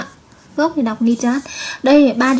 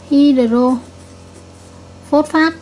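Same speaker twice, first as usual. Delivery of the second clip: Hydrophosphate stretched very slowly, syllable by syllable; very slow model reading; much slower than usual. Shown as a demonstration. Teacher repeats the name very slowly for pupils to copy. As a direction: drag Hydrophosphate out so every syllable lands. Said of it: "vậy chúng ta sẽ đọc là natri".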